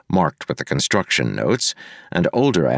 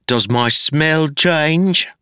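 much higher, slow, triumphant; spring the trap slowly; smug rhetorical question; 10 semitones higher, much slower than usual. A narrator's reading. Wayne smugly cornering Marcy, slow and high.

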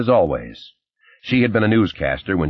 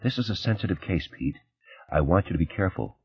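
soft, confidential caution; lowered voice; 8 dB quieter than usual. A narrator's reading. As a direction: drop the volume for a private warning. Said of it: "She lowered her voice".

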